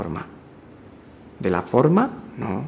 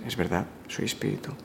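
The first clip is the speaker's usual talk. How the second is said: hushed and much softer, almost whispered; soft inner affirmation; 2 semitones lower, 11 dB quieter than usual. Shown as a demonstration. Speaker to listener, showing the felt affirmation, soft hush. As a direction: say it quietly as a felt truth. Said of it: "y dices".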